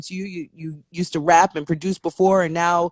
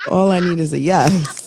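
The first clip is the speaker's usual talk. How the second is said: sultry voice; 5 dB louder than usual. Acted. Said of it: "did the sultry voice for it".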